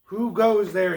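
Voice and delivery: big projected troll voice; booming troll. Acted. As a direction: demand it as a booming bridge troll. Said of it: "he demanded in a booming voice".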